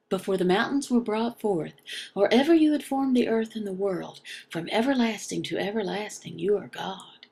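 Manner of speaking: brisk, fast scripture recitation; quick Bible reading. Acted. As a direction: rattle off the psalm like a familiar text. Reads a psalm aloud.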